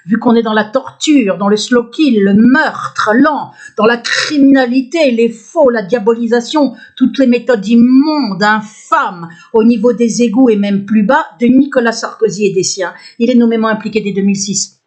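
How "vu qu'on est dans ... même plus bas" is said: emphatic list, drawn-out key words; real outraged listing of horrors; outraged denunciation. Real, not acted. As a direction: hammer each accusation with indignation. Lists horrors she accuses them of.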